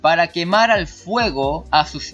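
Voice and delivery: emphatic, measured Bible reading; scripture reading. Acted. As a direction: read the verse aloud, leaning on key words. Sigue leyendo el pasaje bíblico. (lectura bíblica enfática)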